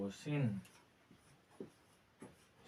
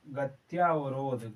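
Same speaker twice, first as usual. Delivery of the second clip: slow careful spelling-out; 3 dB louder, slower than usual. Shown as a demonstration. Teacher slowly dictating the word to students, drawn out. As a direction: draw the word out syllable by syllable. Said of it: "गत्यावरोध में केवल गत्य अवरोध होता है".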